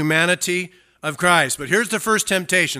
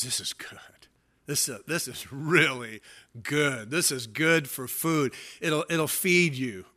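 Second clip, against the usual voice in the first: tempter; 2 semitones lower, 5 dB quieter than usual. Acted. Acting Satan tempting Eve.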